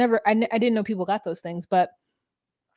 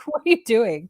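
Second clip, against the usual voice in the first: laughing disbelief. Retold or imitated. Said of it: "I was like".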